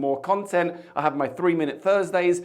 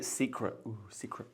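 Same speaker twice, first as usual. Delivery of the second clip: "secret" breathed out much softer, with an intrigued ooh; hushed intrigue; 4 semitones lower, 14 dB quieter than usual. Acted. Reading the Aperol label, host lingers on the secret recipe with hushed intrigue. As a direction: linger on the word like it's juicy gossip.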